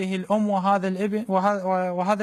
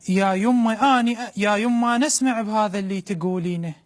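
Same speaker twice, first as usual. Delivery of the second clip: mother's voice in Iraqi dialect; iraqi arabic accent; 2 semitones higher than usual. Acted. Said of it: "بلهجة عراقية خالصة".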